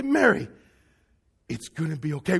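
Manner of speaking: lightly acted comforting voice; gentle reassurance. Consoling Mary in imagined dialogue.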